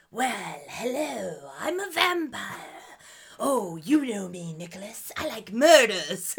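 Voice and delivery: slow, lightly voiced harmless vampire; unthreatening villain. Cohost mocking the non-menacing vampire villain, mild silly voice. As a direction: play the villain as politely unthreatening. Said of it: "he is very, like".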